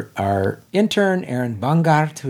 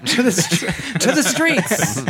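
laughing; 4 semitones higher, slower than usual. Retold or imitated. Echoing title, laughing.

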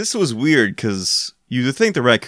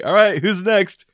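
higher, slow heroic voice; grandiose superhero; 8 semitones higher than usual. Retold or imitated. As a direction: bold cartoon hero call. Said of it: "like a grandiose superhero".

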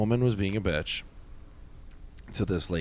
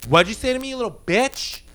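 much higher, louder mock threat; retold snarl; 11 semitones higher, 4 dB louder than usual. Rude woman threatening the new bouncer, high mock snarl. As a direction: spit the insult at her. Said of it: "seriously said something like".

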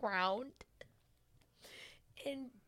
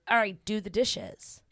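lightly acted firm order, louder; bossy mistress; 6 dB louder than usual. Mistress telling her client to do dishes, lightly bossy. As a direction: give a mock command, raising the volume.

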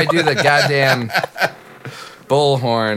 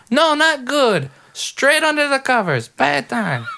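much higher squeezed character voice; redoing the bit for the friends, much higher; high-voiced bad time guy; 13 semitones higher than usual. Shown as a demonstration. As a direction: push it way up into the silly high voice. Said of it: "Are you saying bed or bad".

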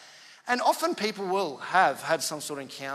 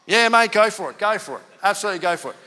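eager yes; 5 semitones higher, 10 dB louder than usual. Retold or imitated. Taxi driver eagerly agrees to prayer.

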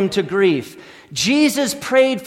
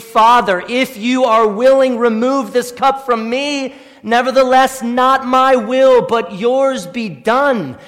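pleading prayer, higher, slowing at the end; Jesus praying; 4 semitones higher, 4 dB louder than usual. Retold or imitated. Jesus praying in Gethsemane, a lightly voiced plea. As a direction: plead to the Father, slowing down on the close. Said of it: "He prayed".

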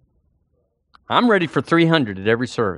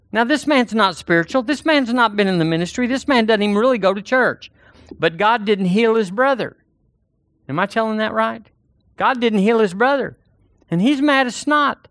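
preaching with rising force; 8 semitones higher than usual. Acted. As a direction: preach it up high to the congregation.

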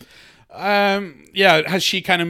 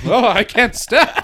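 slow, higher movie-character cry; movie scene quote; 5 semitones higher, slower than usual. Retold or imitated. Co-host quoting The Jerk as he grooves, acted. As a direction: act it like a helpless dancer. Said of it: "like that scene in The Jerk".

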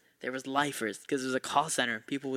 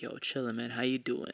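smooth talker; 3 semitones lower, 5 dB quieter than usual. Retold or imitated. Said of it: "very smooth in the way he talked".

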